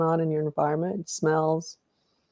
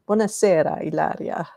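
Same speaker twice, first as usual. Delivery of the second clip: Italian accent. Real, not acted. Host welcoming Ilaria to the stream, Italian accent. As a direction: greet warmly in an Italian accent. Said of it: "perfect accent".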